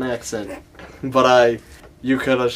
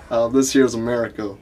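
put-on Southern gentleman's correction; Southern accent. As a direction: inform her in mock Southern. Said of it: "get my Southern accent back".

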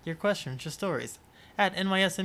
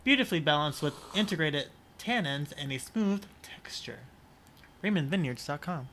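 ad read. Acted. Reading the wine label aloud as a mock ad. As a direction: read the label copy like a sommelier.

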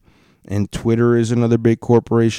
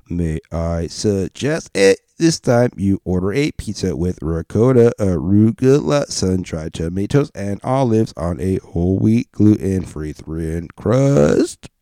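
lightly voiced robot upselling. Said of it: "I'll do robot voice for Google".

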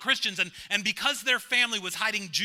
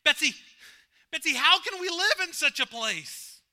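1 despairing plea; 9 semitones higher, 7 dB louder than usual. A narrator's reading. Corrie despairing in the barracks.

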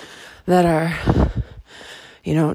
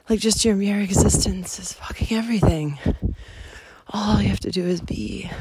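tender whisper; 2 semitones higher than usual. Retold or imitated. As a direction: whisper it like comforting a child. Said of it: "pointing it to the truth".

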